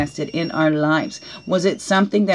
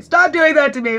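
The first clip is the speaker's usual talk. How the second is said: laughing mock complaint; 8 semitones higher, 6 dB louder than usual. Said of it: "They get angry and say".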